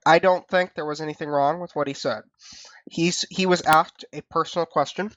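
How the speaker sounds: talking around a cough drop; cough drop in mouth. Real, not acted. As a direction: speak with a lozenge in the mouth. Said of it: "I've got a cough drop in my mouth".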